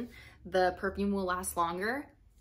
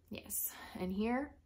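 whisper; 6 dB quieter than usual. Real, not acted. Unvoiced aside.

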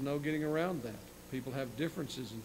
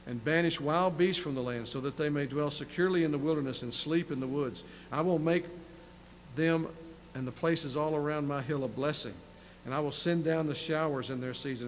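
measured, slightly raised reading voice; scripture reading. Acted. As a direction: read the prophecy with weight. Preacher reads scripture aloud.

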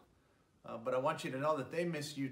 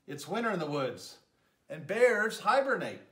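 higher, louder little mouse scolding gently; a fussing mouse, a touch squeaky; 7 semitones higher, 8 dB louder than usual. Acted. Mouse telling Bear it is too late, higher and fussing. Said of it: "Mouse squeaks".

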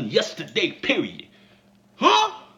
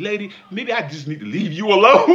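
laughing quote; 6 dB louder than usual. Retold or imitated. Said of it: "I remember saying".

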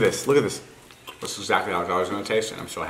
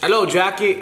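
high, loud, clumsy Aussie accent; attempted Australian accent; 10 semitones higher, 5 dB louder, slower than usual. Shown as a demonstration. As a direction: badly attempt an Australian greeting, pitched up. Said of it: "like, impressions and accents".

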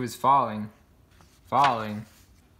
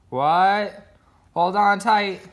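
shouted exchange; 7 semitones higher, 6 dB louder, slower than usual. A narrator's reading. Shouted exchange while riding.

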